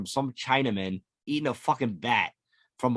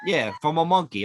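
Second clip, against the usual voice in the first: laughing; 3 semitones higher, 3 dB louder than usual. Real, not acted. Laughing reply.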